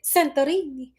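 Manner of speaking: Santorini with a put-on Italian accent; lightly Italianize the place name. Shown as a demonstration. Checking the pronunciation with viewers, Italian accent. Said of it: "saying it with an Italian accent".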